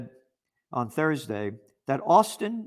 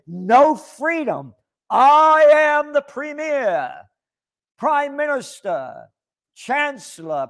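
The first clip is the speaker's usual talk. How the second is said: higher, louder, puffed-up decree; mock authoritarian leader; 6 semitones higher, 5 dB louder than usual. Mimicking the premier forbidding the Freedom Convoy, pompous decree. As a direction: lightly play a pompous tyrant barking orders.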